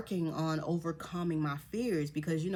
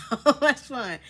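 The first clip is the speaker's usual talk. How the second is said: gushing with real excitement; excited; 3 semitones higher, 5 dB louder than usual. Real, not acted. Telling viewers about the faster slide, excited. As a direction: relive the thrill with a laugh. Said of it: "I'm getting so excited again".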